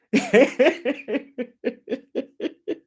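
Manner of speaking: high, rippling real chuckle; a long run of high laughter. Real, not acted. Preacher to congregation that will not raise hands, high amused laugh.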